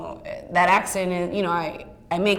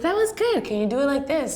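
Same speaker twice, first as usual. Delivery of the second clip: casting director's encouragement; 7 semitones higher than usual. Retold or imitated. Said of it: "and she's like".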